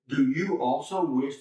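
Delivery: snarky question with stress on YOU; a touch of snark, leaning on the word you. Acted. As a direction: needle them with a pointed question. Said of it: "kind of snarky".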